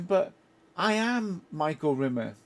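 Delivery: mock-indignant plea, leaning on I AM; pleading protest. Turned-away film fan to the box office girl, pleading protest. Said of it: "I remember pleading with the".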